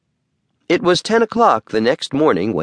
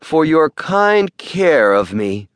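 grateful, slow; 3 semitones higher, slower than usual. Acted. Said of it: "he said aloud".

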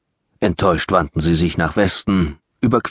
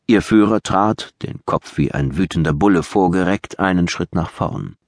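plain reading voice

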